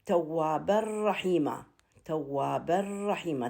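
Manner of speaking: ترتيل بطيء بإدغام بلا غنة; slow recitation. Shown as a demonstration. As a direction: recite توابا رحيما slowly, no nasal hum. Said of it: "التنوين مع الراء".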